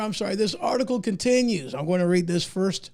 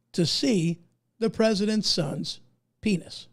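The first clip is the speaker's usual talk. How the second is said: slow and deliberate. Shown as a demonstration. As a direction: reread slowly, pausing between phrases. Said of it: "let me go ahead and read that again".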